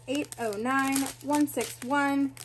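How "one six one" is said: breathless counting; winded, gasping between numbers; out of breath. Real, not acted. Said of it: "I'm out of breath".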